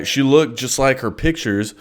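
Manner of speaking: stiff robotic monotone; flat and mechanical, like reading. Real, not acted. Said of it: "Dude, I sound like a fucking robot".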